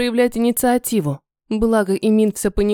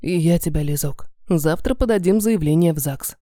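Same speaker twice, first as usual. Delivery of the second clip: мужской голос; 5 semitones lower than usual. Acted. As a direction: lower male voice, tender. Эмин отвечает, мужской голос. (низкий нежный мужской голос)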